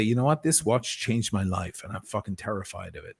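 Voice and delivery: inspired night talk. Retold or imitated. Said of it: "you might say".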